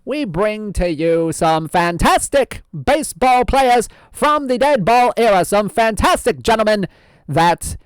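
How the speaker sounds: lightly voiced old-time radio host; old-fashioned announcer voice; old-timey voice. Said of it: "keep up this old-timey voice".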